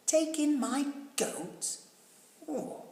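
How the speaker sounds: high, incredulous question; old lady can't believe the advice; surprised old lady. A narrator's reading. Old lady to wise man, high and puzzled.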